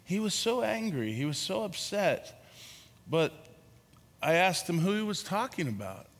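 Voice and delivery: an imitated soft French-accented voice, kindly; Jean Vanier's soft accent. Jean Vanier calmly answering the angry reporter, soft French accent. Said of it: "he has this really soft accent".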